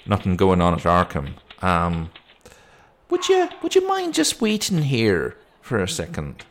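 lightly voiced sceptical policeman; put-on policeman voice with loose accent; policeman role. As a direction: put her off with hesitant official doubt. Policeman answers the visitor.

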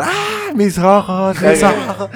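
mock scream. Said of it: "empezó a gritar".

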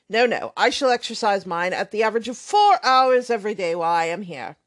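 put-on brash, offhand young man swearing lightly; lightly voiced loud young rake; blustering braggart.

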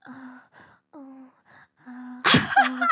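badly faked bored moans; half-hearted fake moans; fake moaning. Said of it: "That was the fakest shit".

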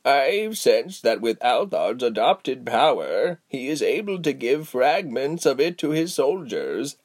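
slow, measured elder's voice; slow wise old woman. Acted. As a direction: speak like a patient old sage. Giselle's slow voice.

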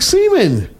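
put-on high singsong child voice; dad imitating his daughter in the car; imitating little girl. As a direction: mimic a six-year-old innocently repeating. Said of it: "She was like".

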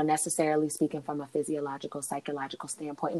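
therapist voice. Shown as a demonstration. Podcast host demonstrates how she speaks from a factual point, therapist voice. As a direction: drop your voice low and quiet, like a therapist stating facts. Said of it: "I kinda drop my voice".

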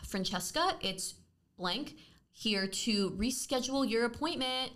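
slow, sighing mock-bitchy phone greeting; sigh, then drag it out as an imitated receptionist. Dental receptionist calling to reschedule, mock bitchy. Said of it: "Like, all bitchy, Sam said".

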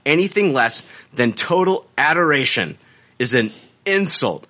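mannered read-out with deliberate pauses; affected reading tone. Acted. Host reads out the reviewer's update, mannered affected tone. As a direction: read the complaint with put-on inflection, phrase by phrase. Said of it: "keep going with this, with this tone".

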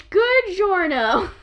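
slow mock Spanish pun; the speaker's joke greeting. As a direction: drag the pun out like a game character. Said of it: "or as they say in Spanish".

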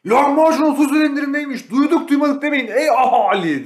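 high, loud Ottoman crier call; town crier. Retold or imitated. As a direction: proclaim it to the whole square. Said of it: "Osmanlı'dan gelmiş biraz böyle". (yüksek sesli tellal nidası)

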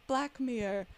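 mock German accent, trying to be understood by a voice remote; lightly put-on German accent; thick German accent. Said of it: "very thick German accent".

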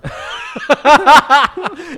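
loud, high burst of laughter. Real, not acted. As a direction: crack up loudly.

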